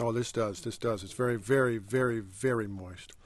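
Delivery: talking through a bite of cake; mouth full. Real, not acted. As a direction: speak round a mouthful, softly. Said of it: "talk with their mouth full".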